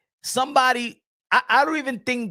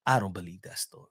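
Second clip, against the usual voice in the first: low, fast disbelief; 9 dB quieter, faster than usual. Real, not acted.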